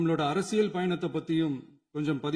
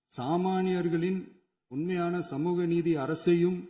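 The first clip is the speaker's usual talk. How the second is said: slow emphatic; slower than usual. Real, not acted. Emphatic slogan phrase.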